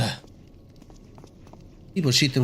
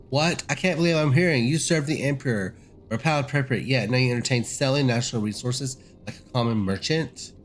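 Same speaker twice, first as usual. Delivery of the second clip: outraged noble; 3 semitones higher than usual. Acted. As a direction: hurl his disbelief at the traitor. Outraged lord confronts the traitor.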